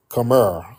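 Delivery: "here" said as "hurr"; river accent, "here" with a heavy R, "hurr"; intrusive R. Shown as a demonstration. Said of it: "that intrusive R from the Irish".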